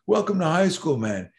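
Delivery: high, loud taunt before the punch; mocking bully. Bully taunts the twelve-year-old, high and loud. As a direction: sneer it like a teen bully. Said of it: "This guy goes".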